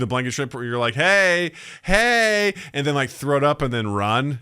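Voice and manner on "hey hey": calling to dog. Retold or imitated. Re-enacting teasing the dog.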